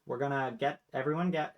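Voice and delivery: high, loud queenly announcement; rally the table; queen announcing. Acted. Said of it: "Storm is like".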